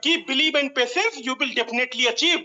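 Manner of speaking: each word of the saying drawn out slowly; slow quoted motto. Retold or imitated. To the investors, quoting a motto very slowly. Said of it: "लेकिन याद रखिएगा".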